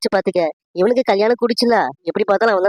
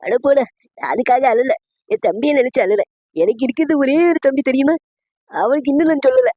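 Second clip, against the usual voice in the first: higher-pitched, mock-weepy complaint; acted tearful lament; 4 semitones higher than usual. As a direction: lament a brother's silence as if crying. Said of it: "அதான் அழுதுட்டு இருக்கேன்". (அழுகையோடு புலம்பும் நடிப்பு)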